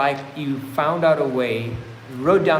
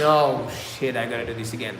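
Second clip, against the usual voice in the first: weary grumble; 5 semitones lower than usual. Shown as a demonstration. Demonstrating the bad way to face chores, weary grumble. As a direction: sigh it out with rolled eyes. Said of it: "and rolling your eyes".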